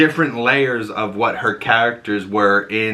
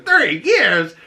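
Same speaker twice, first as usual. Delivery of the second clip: shocked echo; 11 semitones higher, 3 dB louder than usual. Retold or imitated. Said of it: "She goes".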